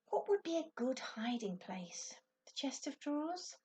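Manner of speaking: breathy hushed wondering; whispered thoughts. A narrator's reading. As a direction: whisper it to yourself. Ben's hushed inner thoughts.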